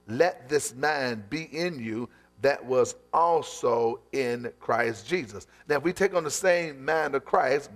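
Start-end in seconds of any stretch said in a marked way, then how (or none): 0.1-5.5 slow emphatic reading. Shown as a demonstration. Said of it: "repeated slowly".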